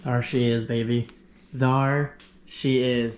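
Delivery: tender hello to the box; doting. Real, not acted. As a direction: coo over the new phone lovingly. Greeting new iPhone box.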